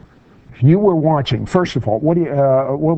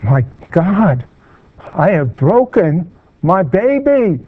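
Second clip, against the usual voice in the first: retold yell; 4 semitones higher than usual. Host retelling a grandmother's poolside yell, dramatic mock cry. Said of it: "she yells out".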